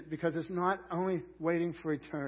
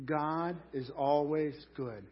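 slow emphatic; slower than usual. Shown as a demonstration. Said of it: "Would you say that with me?".

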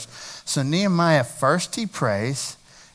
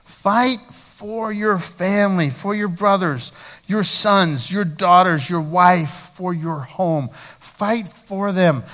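fervent exhortation; 3 semitones higher, much slower than usual. Real, not acted. Preacher exhorting congregation.

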